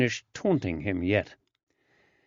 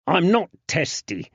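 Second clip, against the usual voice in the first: a sharp mock snap, higher and a bit louder; snapped; 7 semitones higher, 4 dB louder than usual. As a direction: bite the denial off short. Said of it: "Wood snapped".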